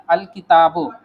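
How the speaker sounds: अल किताबु with the ल clearly sounded; Arabic pronunciation. Shown as a demonstration. Teacher models the sounded ल of अल किताबु for the class. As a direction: say the ल in अल किताबु fully. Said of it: "जैसे हम लोग बोल रहे थे ना".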